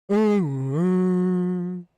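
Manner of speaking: imitating a cave troll's grunting ooh; a quick troll-like hoot; mock troll call; cave troll noise. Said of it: "The cave troll in Moria".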